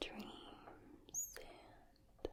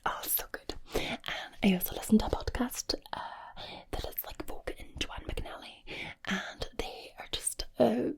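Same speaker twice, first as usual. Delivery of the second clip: fast whispered Irish accent; faster than usual. Shown as a demonstration. Host moves on to Irish accent, speeding up the whisper. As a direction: whisper it quickly in Irish, sounds to the front. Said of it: "we're gonna speed things up here because we're gonna move on to the Irish accent".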